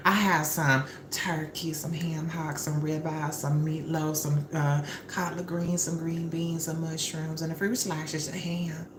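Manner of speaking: a hint of a nervous hostess; lightly voiced shy invitation. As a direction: coax him over with the menu. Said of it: "she's like".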